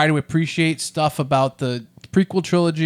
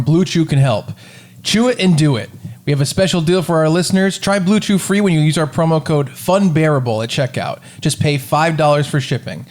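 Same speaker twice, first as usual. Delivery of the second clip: punchy sponsor read; 4 dB louder than usual. Acted. Host offering listeners a free trial, ad read. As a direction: sell it to the listeners, hitting the promo code.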